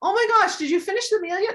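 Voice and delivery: tight, pinched, stressed-out, very high-pitched voice. Explaining voices family members dislike, the speaker demonstrates a high pinched stressed voice. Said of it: "it gets really high".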